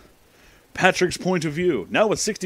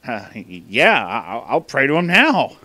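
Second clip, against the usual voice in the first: stammering, repeating words; stuttering. A narrator's reading. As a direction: stumble over the start of each phrase. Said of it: "I stuttered".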